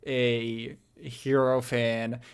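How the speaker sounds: slow, drawn-out disdain; lightly scornful, taking your time. Real, not acted. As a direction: stretch the words with understated contempt. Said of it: "The disdain. The disdain in your voice".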